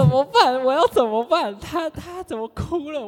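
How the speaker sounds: high, far-off voice, fretting in mock panic; panicked inner voice. Teacher recalling her panic as the client cries, high and alarmed. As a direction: replay the moment you froze in alarm. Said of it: "我想说".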